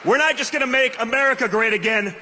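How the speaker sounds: rousing shouted call to vote; rally speech. Acted. Rally climax urging crowd to vote.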